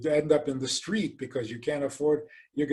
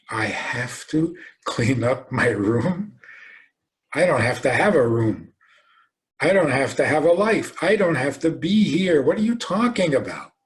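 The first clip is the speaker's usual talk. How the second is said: put-on indignant child; 5 dB louder than usual. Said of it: "the child says".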